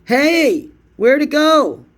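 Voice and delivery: very high, loud, slow imitation; squeaky mock amazement; mimicking the filmer. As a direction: parrot the video's amazed voice. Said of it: "That's my favorite video of all time".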